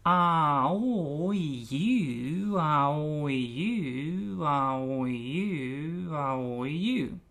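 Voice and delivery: "ah, oh, you" sung with rising and falling pitch; "ah, oh, you" with feeling and melody; expressive vowels. Shown as a demonstration. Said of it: "we're adding expression".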